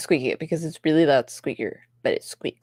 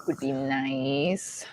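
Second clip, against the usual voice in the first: whispering; 6 semitones lower, 7 dB quieter, much slower than usual. Real, not acted. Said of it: "whispered aside".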